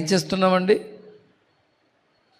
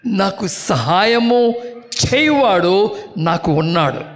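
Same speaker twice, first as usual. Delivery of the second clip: laughing recital; 4 semitones lower than usual. Shown as a demonstration. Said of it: "చెప్పండి".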